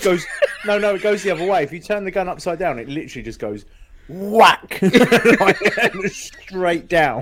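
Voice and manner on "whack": whack sound effect. Retold or imitated. Imitates shot from upturned gun.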